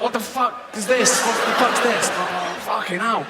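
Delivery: put-on a panicked dolphin yelling at the kids. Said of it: "the dolphin's like".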